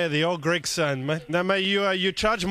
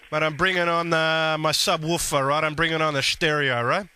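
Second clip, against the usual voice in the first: Guido prank character. Acted.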